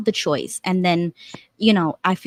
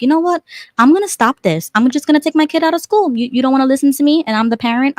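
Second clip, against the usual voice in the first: higher-pitched, mildly indignant retelling; raised, decided self-quote; fed-up declaration; 5 semitones higher, faster than usual. Retold or imitated. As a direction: retell putting your foot down. Retelling standing up to the school.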